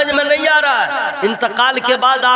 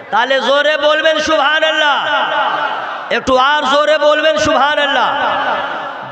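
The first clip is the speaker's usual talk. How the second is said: Bengali; 3 semitones higher than usual. Acted. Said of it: "जितना बंगला जानता हूँ उतना बोल दूंगा".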